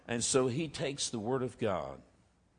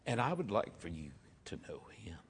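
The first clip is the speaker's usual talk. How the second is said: soft whisper; 5 dB quieter than usual. Retold or imitated. Invalid lady's gentle closing plea.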